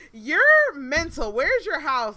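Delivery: loud, high retold outburst; re-enacted angry outburst at the date; furious dismissal. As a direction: snap at him, completely done.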